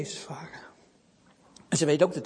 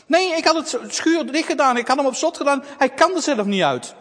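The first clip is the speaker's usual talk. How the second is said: put-on upset girl; 7 semitones higher, 7 dB louder than usual.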